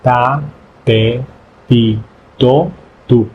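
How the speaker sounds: "ta, te, ti, to, tu" without puffs of air; unaspirated T in "ta, te, ti, to, tu"; soft Spanish T. Shown as a demonstration. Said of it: "like, really soft".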